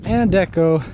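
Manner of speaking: breathless after the climb; panting between words; out of breath. Real, not acted. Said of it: "Sorry, I'm out of breath".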